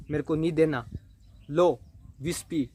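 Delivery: lightly voiced angry girl snapping back; angry refusal. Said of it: "रचना को गुस्सा आया".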